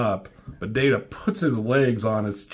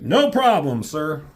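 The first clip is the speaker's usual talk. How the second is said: eager Data; 5 semitones higher, 6 dB louder than usual. Retold or imitated.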